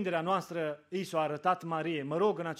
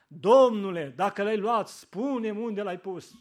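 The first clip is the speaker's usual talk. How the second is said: loud cry of Domnule, then pleading; 5 dB louder than usual. Retold or imitated. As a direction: beg the gardener, grieving. Mary pleads at the tomb. (strigăt rugător)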